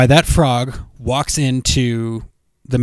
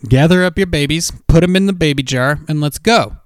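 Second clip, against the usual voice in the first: fed-up orders; 3 semitones higher than usual. Acted. Acted fed-up Mando ordering frog lady.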